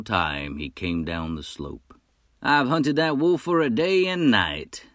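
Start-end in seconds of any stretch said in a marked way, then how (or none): 2.5-4.8 higher, louder bold hunter. Acted. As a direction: call out like a proud hunter. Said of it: "said the fellow".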